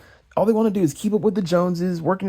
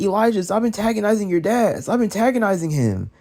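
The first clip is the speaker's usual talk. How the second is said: a touch higher mock scolding; mocking Lavelle; 6 semitones higher than usual. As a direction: nag him like Lavelle did, mockingly. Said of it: "Lavelle's like".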